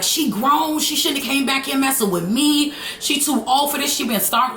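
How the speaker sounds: hammed-up angry shouting through glass; retold hollering. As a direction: holler it back at her, mad. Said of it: "I'm steady hollering in the window".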